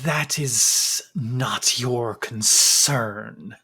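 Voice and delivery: very slow, soft, otherworldly voice; eerie museum figure. Acted. Strange figure warning the intruding adventurers, slow and eerie. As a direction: drag each word out, uncanny and hushed.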